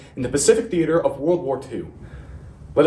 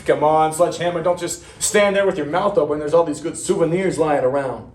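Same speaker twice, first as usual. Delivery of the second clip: raised, chiding veteran's voice; company veteran; 4 semitones higher than usual. Acted. Veteran urging Sledgehammer toward souvenirs, chiding in a raised voice. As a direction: chide the staring newcomer. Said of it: "a company veteran came up".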